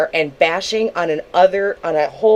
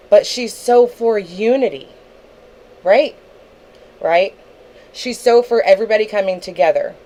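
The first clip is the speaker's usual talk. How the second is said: pointed sarcasm with mock agreement; sarcastic; 2 semitones higher than usual. Real, not acted. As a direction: lean sarcastically on the praise, fishing for agreement. Mocking a rival's claim of unity.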